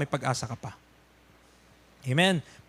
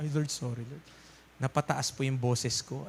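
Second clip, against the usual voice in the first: much softer, lower sheepish sorry; quiet apology; 7 semitones lower, 10 dB quieter than usual. Acted. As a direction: murmur an embarrassed sorry to God. Voiced believer apologizes to God. (mahinang paumanhin)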